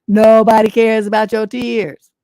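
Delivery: slow loud declaration; emphatic scolding. Real, not acted. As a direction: lay down the law, slow and firm. Berating the letter writer.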